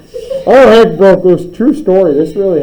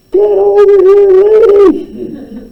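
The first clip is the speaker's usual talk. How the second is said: very high screeching yell; high-pitched deranged shriek; deranged scream; 4 dB louder, slower than usual. Acted. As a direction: shriek it like a crazed girl charging in. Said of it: "the deranged blonde girl screaming".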